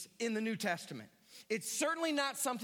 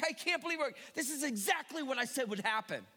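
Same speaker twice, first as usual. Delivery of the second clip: mild mock exasperation, pitched up; ticked off; 3 semitones higher than usual. Jonah ticked off at God, mildly exasperated. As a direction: grumble it, half-hearted indignation. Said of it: "he's still ticked".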